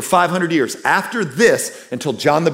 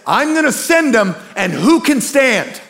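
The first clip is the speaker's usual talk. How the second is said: God's question; 8 semitones higher than usual. Retold or imitated. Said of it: "He says".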